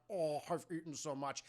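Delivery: mock groan from overeating; overstuffed. Sorority sister moaning about overeating, stuffed. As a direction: groan it out as if too full.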